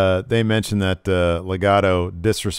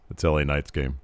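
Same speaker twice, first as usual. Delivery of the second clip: shoot voice; 6 semitones lower, 6 dB quieter than usual. Retold or imitated. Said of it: "in a shoot voice".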